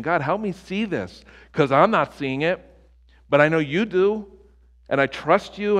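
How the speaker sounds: high, loud anguished plea to God; pleading prayer cry. Retold or imitated. Preacher reenacting his loud pleading prayer to God, anguished. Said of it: "I have screamed".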